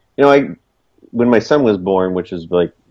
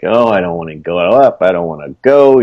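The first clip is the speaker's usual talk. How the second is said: low, dragging reluctant whine; 3 semitones lower than usual. Retold or imitated. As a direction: groan it like you dread Monday. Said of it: "You're like".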